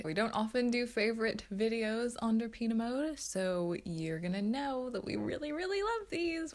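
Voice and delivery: bright, high salesy pitch; infomercial voice. Real, not acted. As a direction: sell it like a TV ad host. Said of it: "Why do I sound like an infomercial?".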